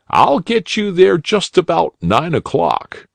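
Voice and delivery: put-on a helpful bunny uncle inviting a lost boy; kindly old rabbit. A narrator's reading. Rabbit inviting the lost boy into his auto, cheerful and kindly.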